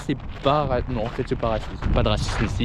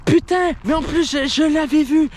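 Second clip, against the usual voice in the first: mock regret; 9 semitones higher, 3 dB louder than usual. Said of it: "tout le monde est en mode".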